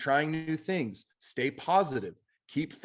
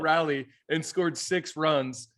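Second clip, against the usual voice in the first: laughing while telling; 3 semitones higher, 3 dB louder than usual. Real, not acted. Laughing about the rally.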